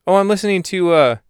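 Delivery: a hint of a chirpy guy answering; Douglas's voice. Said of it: "says Salamander to Douglas".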